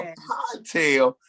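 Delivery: slow, drawn-out doubting question; skeptical. Real, not acted. Host teasing cohost about his drink name, slow and skeptical.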